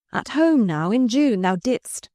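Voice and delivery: high, pressing and urgent. Acted. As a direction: push the memory on him urgently. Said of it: "she said urgently".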